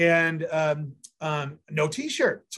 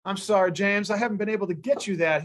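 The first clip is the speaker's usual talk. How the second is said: lightly imitated Southern drawl, a little raised in pitch; thick Southern drawl; 4 semitones higher than usual. Friend apologizing to James on the phone, mild imitated Southern drawl. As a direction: retell it with a hint of a Southern drawl. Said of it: "he said in his thickest Southern drawl".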